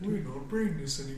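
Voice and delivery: lightly voiced ogre mage line; a hint of a pompous ogre; pompous booming ogre mage. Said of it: "that's the ogre mage voice line from Warcraft two".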